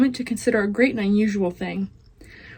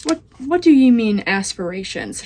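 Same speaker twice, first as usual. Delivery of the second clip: shouting; 5 dB louder than usual. Acted. Meg shouts at the rat about aspirations, loud confused shout. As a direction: holler the question. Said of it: "shouted Meg".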